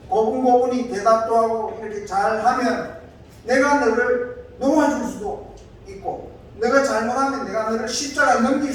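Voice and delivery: displeased Pilate. Retold or imitated. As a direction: press him like an annoyed governor. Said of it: "빌라도가 기분이 좀 나빴어요".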